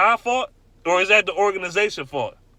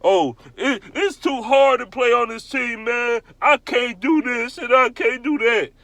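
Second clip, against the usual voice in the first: higher, slow whiny mimicry of a pampered star; mock whining; 4 semitones higher than usual. Ranting fan mocks rich players complaining, mock whine. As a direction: whine it like a spoiled millionaire player. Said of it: "multimillionaires crying about".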